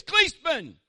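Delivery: high, loud bark of a name; coach barking. Retold or imitated. Football coach gets in his player's face, yelling loud. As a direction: yell like a drill coach. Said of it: "coach get in your face".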